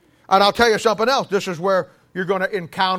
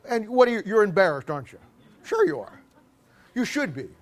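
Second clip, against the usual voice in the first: ordinary talk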